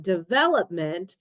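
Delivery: "development" said carefully as an example; deVELopment, stress on VEL; word stress demo. Shown as a demonstration. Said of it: "stresses the second syllable".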